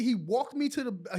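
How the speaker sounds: usual speaking voice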